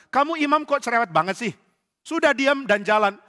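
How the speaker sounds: loud, high, impatient telling-off; exasperated scolding. Acted. Bandit silencing a chattering priest on the march, exasperated.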